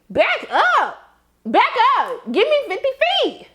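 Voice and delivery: very high, squeaky mock alarm; hammed-up high-pitched "back off" voice; acted recoil. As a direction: squeal at someone to keep their distance. Acted alarm at man towering over.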